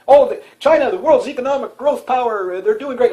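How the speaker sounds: high, sarcastic cheerleader voice parroting the news; mock hype. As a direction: ham up the media's praise, pitched high. Mocking media hype about China.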